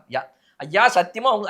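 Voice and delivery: high, loud pleading oath; swearing voter. Retold or imitated. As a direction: swear it in a panic.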